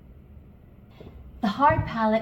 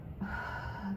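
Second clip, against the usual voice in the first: long unvoiced breath out; 1 demo exhale; 14 dB quieter than usual. Shown as a demonstration. Teacher showing the out-breath, airy exhale. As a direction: let the air go in a sigh. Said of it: "breathe out".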